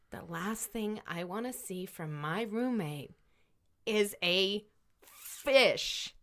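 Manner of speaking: mildly exasperated, building to an emphatic last word; restrained frustration, punching the final word; exasperated roommate. Acted. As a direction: hold back the complaint, then burst on FISH. Fed-up roommate complains, voiced in story.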